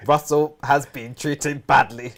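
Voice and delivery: slow, even robot voice. Pretend. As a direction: read it out like a stiff robot. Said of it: "In your robot voice".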